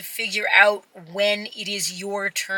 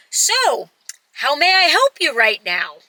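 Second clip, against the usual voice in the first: lightly mocked customer-service politeness, pitched up; a touch of higher, rehearsed helpfulness; corporate politeness; 4 semitones higher than usual. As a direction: recite it like a scripted corporate greeting. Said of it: "soulless corporate question".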